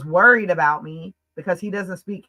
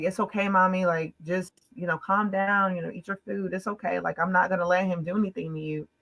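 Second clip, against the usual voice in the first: retold soothing; 4 dB quieter than usual. Comforts shaking, crying child.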